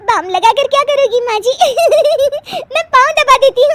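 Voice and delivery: high-pitched giggling through the words; can't-stop laughing fit. Acted. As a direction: talk while cracking up, ending in helpless laughter. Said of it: "तुम हंस रही हो".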